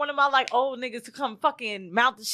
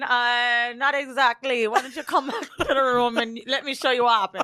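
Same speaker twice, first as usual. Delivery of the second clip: put-on Jamaican accent, faltering start. Retelling what the workman said about the pipe: imitating a Jamaican accent. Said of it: "Y'all know we getting a Jamaican accent".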